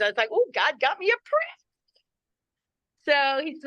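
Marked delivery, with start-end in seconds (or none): 0.3-1.6 high, giddy swooning reaction; delighted awe. Retold or imitated. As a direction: gush as if you won a prize. Retells hearing his name is Prince.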